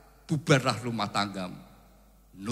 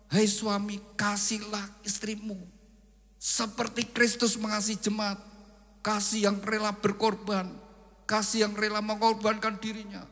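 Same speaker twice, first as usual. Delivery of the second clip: higher, solemn voice of the Lord; voice of God; 7 semitones higher than usual. Acted. God addressing the husband, raised solemn voice. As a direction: speak as the Lord commanding the husband gently. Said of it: "Roh Kudus berbicara pada suami".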